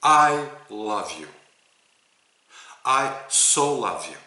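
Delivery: slow, emphatic declaration of love; heartfelt declaration. Shown as a demonstration. Teacher models a healing phrase for a student, slow and heartfelt. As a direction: draw it out with deliberate weight. Demonstrating what to say in healing prayer.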